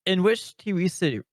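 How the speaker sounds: numb tongue from ice. Real, not acted. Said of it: "my tongue is, like, numb".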